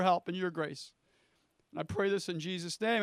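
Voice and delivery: hushed, earnest prayer to the Lord. Acted. Pastor praying over his church, hushed and earnest. Pastor prays aloud before sermon.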